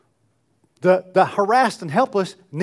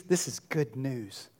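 softer, lower and slow; hushed; 5 semitones lower, 11 dB quieter, slower than usual. Shown as a demonstration. Pastor quietly restating the good news after the psalm, hushed. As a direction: let the words drop almost to a murmur.

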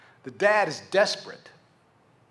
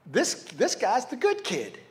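ordinary delivery

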